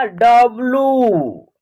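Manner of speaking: डब्ल्यू slow, final oo held; letter pronunciation. Shown as a demonstration. Teacher showing how W is said, slow stretched डब्ल्यू. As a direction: draw out the end of डब्ल्यू. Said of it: "इसका उच्चारण क्या होगा".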